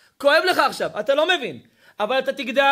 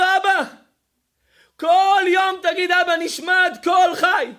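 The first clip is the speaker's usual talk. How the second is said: raised, slowed insistent call; urgent command; 3 semitones higher, slower than usual. Acted. Dead son urges his father to say Nishmat, slow insistent call.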